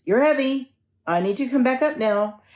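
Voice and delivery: acting out an exasperated demand; urgent demand. Traveler strains holding dangling man.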